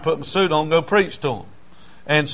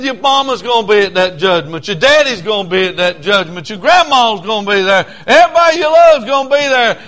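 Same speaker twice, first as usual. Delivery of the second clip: fiery preaching. Retold or imitated. Preaching hellfire to camp kids.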